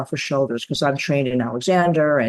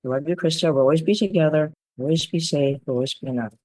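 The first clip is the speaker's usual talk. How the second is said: tender affirmation. Retold or imitated.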